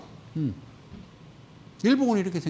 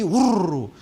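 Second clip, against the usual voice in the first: loud imitated rush of a crowd; crowd rumble; 6 dB louder, slower than usual. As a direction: make the noise of people flocking together. Crowd rushing noise imitated. (몰려다니는 개미들 소리를 크게 흉내)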